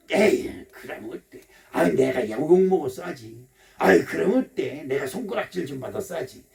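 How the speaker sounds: low, forgiving self-talk; easygoing shrug. Acted. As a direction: shrug it off generously. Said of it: "이렇게 마음이 너그러워져요".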